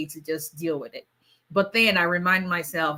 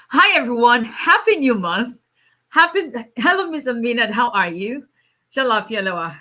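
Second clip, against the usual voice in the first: higher, louder cheerful hello; lively high hellos to the chat; bright greeting; 4 semitones higher, 5 dB louder than usual. Real, not acted. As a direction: welcome them warmly. Greeting viewers joyfully.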